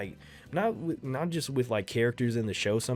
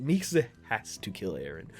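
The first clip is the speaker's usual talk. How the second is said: laughing repeat; 2 semitones lower than usual. Real, not acted. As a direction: chuckle at your own verdict. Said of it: "We know who has to kill Eren".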